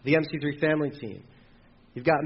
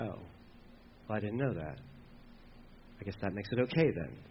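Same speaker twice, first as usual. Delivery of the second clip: much softer and lower, embarrassed climb-down; sheepish backpedal; 8 semitones lower, 14 dB quieter than usual. Retold or imitated. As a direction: mumble it like someone just caught out. Humbled realization, sheepish.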